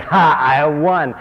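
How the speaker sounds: slow, loud, gloating "ha"; mock triumph. The player thinks he's beaten God, slowly gloating. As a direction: crow over a victory you think you've won. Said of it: "and you think".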